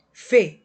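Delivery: Fe set apart as a loud, isolated syllable; separated syllable. Shown as a demonstration. Teacher separates the word feia for pupils, Fe isolated and loud. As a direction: punch out Fe on its own.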